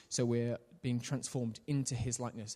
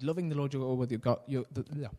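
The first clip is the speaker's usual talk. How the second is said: words slurred by loose dentures; rushed, mumbling past slipping teeth; faster than usual. Real, not acted. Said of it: "Put my teeth back in, sorry".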